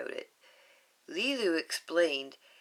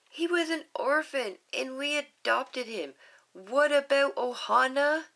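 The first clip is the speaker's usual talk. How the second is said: put-on high, louder pleading child; pleading little girl; 8 semitones higher, 6 dB louder than usual. Lilu pleading with Nani to keep Stitch, high child voice. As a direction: appeal to your sister high and urgent.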